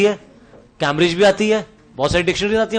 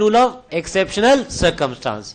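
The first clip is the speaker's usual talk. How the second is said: stretched out word by word, very slow; slow drilled term; much slower than usual. Shown as a demonstration. Teacher slowly drills the rule name for class, very slow. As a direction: spell out the key term slowly for students.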